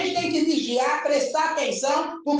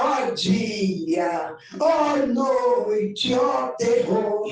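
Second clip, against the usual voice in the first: drawn-out dramatic moaning, slower; mock wailing lament; 5 semitones lower, much slower than usual. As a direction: ham up a whimpering doom cry like the hyena. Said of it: "que nem a hiena".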